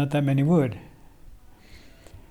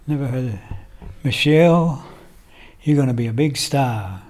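Ali impersonation. Retold or imitated. Friend replaying the boxer's praise of them, light impersonation. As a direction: imitate a boxer's grand prediction in halting phrases. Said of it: "Ali impersonation".

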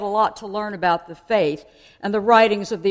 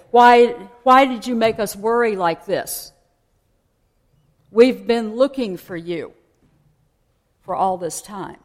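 a louder, lightly acted parent's scold; mock parental scolding; 5 dB louder than usual. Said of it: "they scold him and say".

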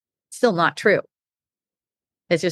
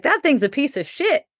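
higher, animated blunt rant; excited rant; 6 semitones higher than usual. Retold or imitated. Friend asking about a condo, answered with a raised excited rant. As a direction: talk the condo down with gusto.

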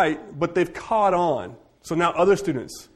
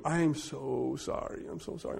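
soft retold apology; 11 dB quieter than usual. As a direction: say sorry softly, ashamed.

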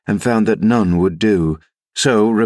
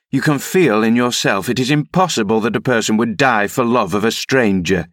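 mildly indignant, pitched up at first; indignant rebuke; 3 semitones higher than usual. Acted. Nurse rebuking the rider through the door, mildly indignant. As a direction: scold him through a door, starting high and easing down.

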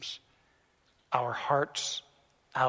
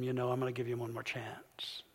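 hushed whisper, softer; 3 semitones lower, 9 dB quieter than usual. Retold or imitated. Principal whispers to the boy and students, soft and hushed. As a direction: breathe it like a secret.

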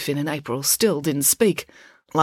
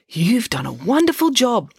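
higher-pitched, coaxing praise; soothing, velvety; 8 semitones higher, 4 dB louder than usual. A narrator's reading. Loretta calming the concussed constable, soothing and velvety. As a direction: soothe him with honeyed praise. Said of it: "using her soothing, velvety voice".

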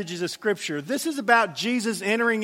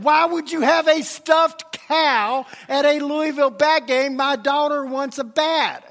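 exasperated protest; 4 semitones higher, 3 dB louder than usual. Retold or imitated. Exasperated arguing with clerk.

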